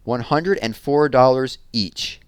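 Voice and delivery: put-on a kid yelling with delight; shouting. Jessie shouting the total to Megan. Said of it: "shouted Jessie".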